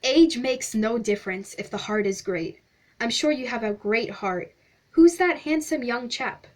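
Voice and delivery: mildly hammed-up, flattering explorer; lightly voiced pompous stranger. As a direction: play the effusive stranger, lightly. Pennyroyal character voice.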